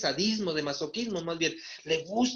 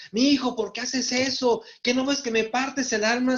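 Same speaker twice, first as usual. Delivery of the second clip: higher, louder tearful plea of a mother; pleading mother; 5 semitones higher, 3 dB louder than usual. Retold or imitated. A mother begging her drugged son, pleading. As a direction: beg your son like a hurting mom.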